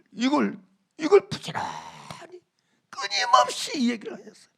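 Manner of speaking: breathy, hushed urging; hushed emphasis. Acted. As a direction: lean in and hush it. Preacher stresses God's persistence. (하나님의 간절함을 속삭이듯 강조)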